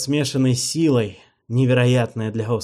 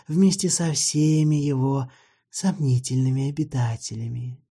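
bitter vampire; 6 semitones higher than usual. Acted. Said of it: "Снова вздохнул горько".

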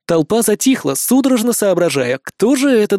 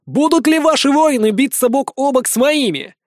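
high, ringing question to a crowd; raised public oratory; rallying call; 9 semitones higher than usual. Acted. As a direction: challenge the crowd to follow. Leader rallies the crowd.

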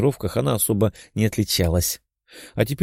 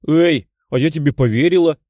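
higher and louder wide-eyed cry; surprised protest; 6 semitones higher, 5 dB louder than usual. A narrator's reading. Liza protests she believed the bluff, surprised and loud. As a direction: caught off guard, protest loudly. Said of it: "расширив глаза".

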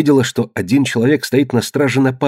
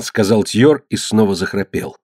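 usual speaking voice

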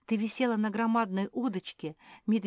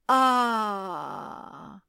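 stone's cry; 4 semitones higher, 4 dB louder than usual. A narrator's reading. Stone cries out.

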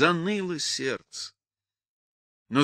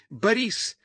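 high-pitched distant call; calling from afar; 7 semitones higher than usual. A narrator's reading. Sister calls Борис from afar, high call. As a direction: call for someone from down the road. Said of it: "позвала он уже издалека".

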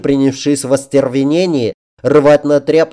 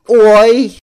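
sudden high, loud yelp; surprised cry; 10 semitones higher, 7 dB louder than usual. A narrator's reading. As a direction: cry out in shock. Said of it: "вскрикнула вдруг принцесса".

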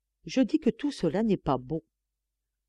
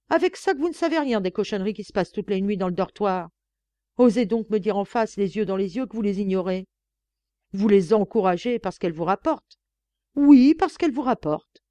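furious accusation; 2 semitones higher, 5 dB louder than usual. Acted.

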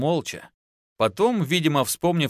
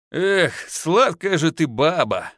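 slow, sighing with pleasure; pleased husband sighing over his wife; contented sigh; 5 semitones higher, 3 dB louder, slower than usual. A narrator's reading. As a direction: sigh it out, satisfied. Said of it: "вздохнул довольный супруг".

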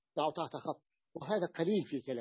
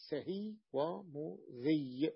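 slow dictation; 3 dB quieter, much slower than usual. Shown as a demonstration. Teacher states the rule's result.

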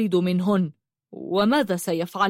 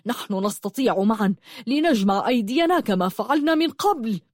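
mildly raised, urging voice; 2 semitones higher than usual. Acted. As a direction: urge them on, pitch climbing. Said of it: "وقال بصوت عال".

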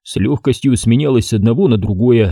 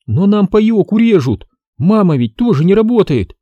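near-tearful outburst; 10 semitones higher than usual. A narrator's reading. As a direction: blurt it out on the verge of crying. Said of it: "выкрикнула девчонка, собираясь разреветься".

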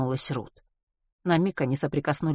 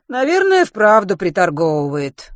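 sighing; 4 semitones higher, 9 dB louder than usual. A narrator's reading. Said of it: "вздохнула миссис Померой".

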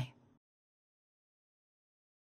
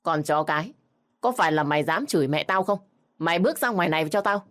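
fast, raised voice, hurling abuse; angry shout; 3 dB louder, faster than usual. Acted. Drugged brother-in-law yelling at Hạnh through the door, furious. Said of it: "quát lớn".

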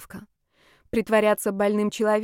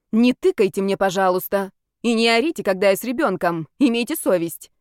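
louder, sharp scolding; indignant retort; 4 dB louder than usual. Acted. Young mother scolding the brawler, loud and indignant. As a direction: put the rude woman in her place.

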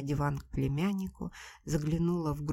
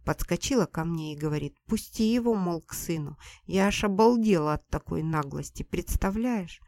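a touch of outraged gossip; indignant; 4 dB louder than usual. Acted. Mother tells her other daughter about Nadya's cheek, indignant. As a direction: complain about the girl's nerve, indignant. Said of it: "мама заговорила возмущённо".

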